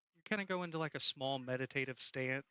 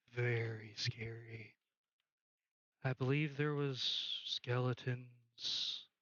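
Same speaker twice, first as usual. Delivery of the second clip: low ghost recalling horrors; lightly voiced spooky witness; ominous ghost; 3 semitones lower, slower than usual. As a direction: draw it out low, as a haunted spirit.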